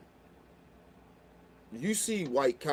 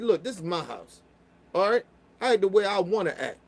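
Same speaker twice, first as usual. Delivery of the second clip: firm retold warning; 5 semitones higher than usual. Telling the cop off at his own house, firmly. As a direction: tell him it's your house. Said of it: "I told him, I said".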